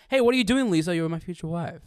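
a hint of the jealous husband, bursting in; Tommy Wiseau impression. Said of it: "that line's great".

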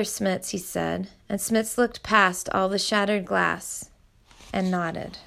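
steady read-aloud storytelling; story narration. A narrator's reading. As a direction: read the chapter to your listeners evenly. Reads a novel chapter aloud.

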